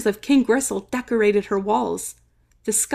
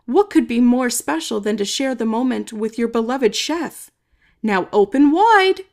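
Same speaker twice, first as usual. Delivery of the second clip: sweetly coaxing, louder at the end; scheming Chef; 3 dB louder than usual. Acted. Chef urging the king to eat Creek, coaxing. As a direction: coax him into opening wide.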